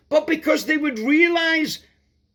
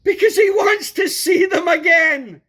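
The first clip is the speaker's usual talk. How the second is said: loud, higher ringing proclamation; emphatic shout; 6 semitones higher, 4 dB louder than usual. Real, not acted. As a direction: drive the point home at full voice. Preacher's emphatic climax.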